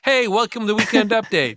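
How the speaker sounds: news anchor voice. Retold or imitated. Mimicking a colleague switching on his on-air anchor voice. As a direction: snap into a mock TV host. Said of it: "He puts on that other voice for update".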